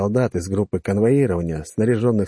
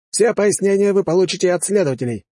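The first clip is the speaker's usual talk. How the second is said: impatient snap; 10 semitones higher than usual. Acted. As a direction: cut him off impatiently. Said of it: "нетерпеливо прикрикнул офицер".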